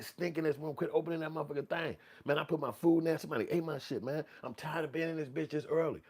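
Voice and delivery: high, whiny complaining coworker. Retold or imitated. Coworker Sarah griping about the break room, high whiny complaint. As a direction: moan about the office like a fed-up coworker.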